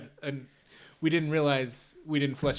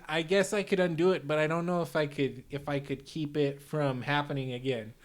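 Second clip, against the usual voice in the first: put-on light Chicago accent in character; villain with a mild Chicago accent. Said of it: "I'm doing the Undoer voice here".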